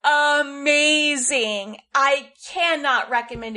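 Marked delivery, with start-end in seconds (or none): 0.0-1.8 drawn-out amazing. Real, not acted. Gushing about a film.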